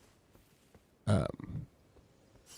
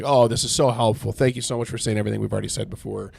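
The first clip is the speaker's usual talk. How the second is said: sarcastic. Retold or imitated. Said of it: "he's being sarcastic".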